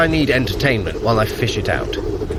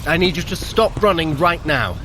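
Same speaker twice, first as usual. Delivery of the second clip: urgent call; 8 semitones higher than usual. Acted. Urgent halt of the runners.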